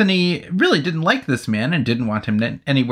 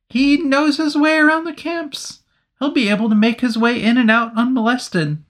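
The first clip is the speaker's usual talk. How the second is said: much higher, George-like put-on voice; ridiculous Anthony voice; 10 semitones higher than usual. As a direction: voice the hero as a comic whiny George type. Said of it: "the way you s-, do Anthony's speech pattern is so ridiculous".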